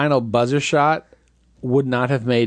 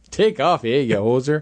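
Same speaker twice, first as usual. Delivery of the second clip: mock Canadian hoser. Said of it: "we're gonna have to do Strange Brew".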